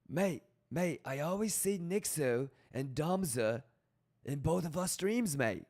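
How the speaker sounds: British accent that slips toward Australian; a shaky British accent that drifts Australian; mock British accent. Shown as a demonstration. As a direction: try a British accent, landing half Australian. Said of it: "That was more Australian than British".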